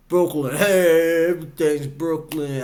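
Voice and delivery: half-hearted mock Brooklyn accent; attempted Brooklyn accent. Viewer guessing how Brooklyn people talk, unsure mock Brooklyn accent. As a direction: have a rough go at Brooklyn talk. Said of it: "I don't know how Brooklyn people talk".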